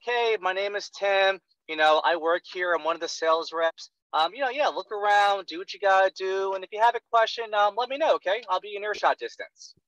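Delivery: lightly mocking canned sales pitch; robotic salesman mockery. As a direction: parody a script read on autopilot. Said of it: "This is seriously how you sounded".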